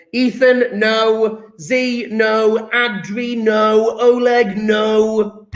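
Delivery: brisk roll call of refusals; calling out rejections. Real, not acted. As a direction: call each pupil out and turn them down. Calling out pupils' answers as wrong.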